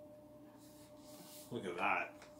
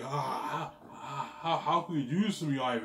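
mocking girlfriend; 4 semitones higher, 4 dB louder than usual.

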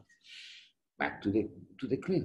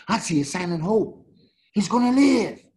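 hopeful outburst; 8 semitones higher, 5 dB louder than usual. Real, not acted. Friend opens his eyes.

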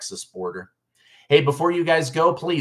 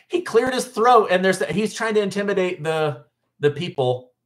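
higher, laughing incredulous delivery; amused disbelief; 6 semitones higher than usual. Real, not acted. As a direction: say it like you can't believe it. Laughing at absurd accusation.

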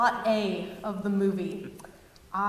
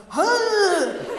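a sudden high, loud startled huh; 10 semitones higher, 7 dB louder than usual. Retold or imitated. Man startled by sliding bags, high sudden huh. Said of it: "some guy just goes".

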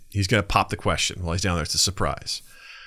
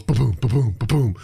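imitated pothole bumps. Imitates truck hitting potholes.

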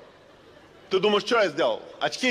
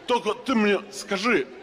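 slow emphatic question; 5 semitones higher, slower than usual. Acted. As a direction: spell it out slowly, exasperated. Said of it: "подошёл и говорю".

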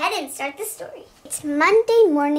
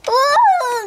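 higher, louder thrilled ooh; excited ooh; 8 semitones higher, 7 dB louder than usual. Acted. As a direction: gasp with thrill. Thrill on ride.

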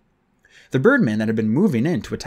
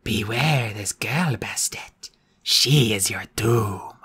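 slow whispered eerie warning; out of sync voice; 2 semitones lower, slower than usual. Acted. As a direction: warn like a lagging dubbed voice. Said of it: "the words taking a moment or two to follow".

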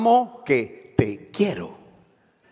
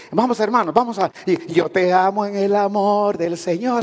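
church singsong; 4 semitones higher than usual. Retold or imitated. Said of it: "hasta cantadito".

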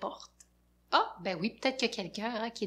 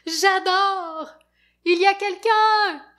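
high, loud delighted call; 9 semitones higher, 11 dB louder than usual. Acted. Fafounet calling out to whoever is inside, loud. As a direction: call into the dark house cheerfully.

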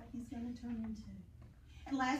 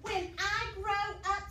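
high, slow caterpillar voice; a high, slow storybook caterpillar; 7 semitones higher, 6 dB louder, slower than usual. Acted. Teacher reads the caterpillar's line to children, high and slow.

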